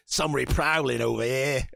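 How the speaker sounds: lightly voiced Cockney sentry; a rough stab at a Cockney watchman; Cockney guard. Game master voices the standard guard, wobbly Cockney. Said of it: "your standard guard is like".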